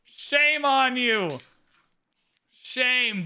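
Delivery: drawn-out, scolding chant; mock shaming. Streamer shaming a game opponent, drawn-out mock scolding. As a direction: publicly shame them in mock outrage.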